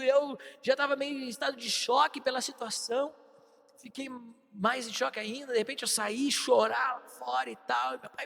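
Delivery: ordinary talk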